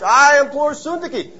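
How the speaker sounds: slow, high, heavy implore; solemn, slow. Acted. Elder reading her name aloud, slow and solemn. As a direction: call her out by name, slowly.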